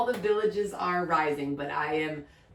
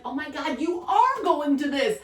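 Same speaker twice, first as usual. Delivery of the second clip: mock panic; 8 semitones higher, 4 dB louder than usual. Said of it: "I was like".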